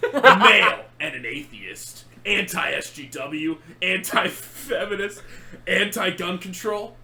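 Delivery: slow, lightly voiced edgy hedgehog; Shadow voice. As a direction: read it as a smug edgy persona, slowly. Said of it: "in Shadow's voice".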